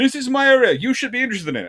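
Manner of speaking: mock shouting and screaming, high and loud.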